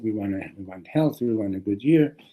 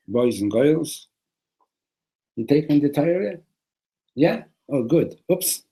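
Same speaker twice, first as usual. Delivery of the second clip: higher-pitched, hammed-up Brooklyn accent; 4 semitones higher, 4 dB louder than usual. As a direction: play God as a Brooklyn wise guy addressing a crowd. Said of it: "in a good Brooklyn accent".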